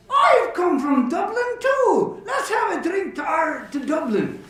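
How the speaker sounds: hammed-up barroom delight, easing at the end; overjoyed discovery. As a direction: exclaim it, then raise a toast. Joke character delighted at shared city.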